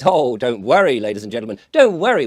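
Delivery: lightly voiced official addressing the public, bursts of loud emphasis; hammed-up public reassurance, punching each "don't worry"; a hint of pompous announcer; mock Bank of England. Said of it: "the Bank of England goes".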